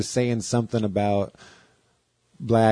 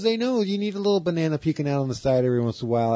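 higher, fast mock Andy voice; imitating Andy; 6 semitones higher, faster than usual. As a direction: rattle it off quick and higher. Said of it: "he goes".

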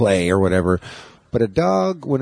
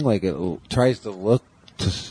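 moving away from mic. Shown as a demonstration. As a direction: voice drifting off mic, doppler-like. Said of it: "my voice is going away from the microphone".

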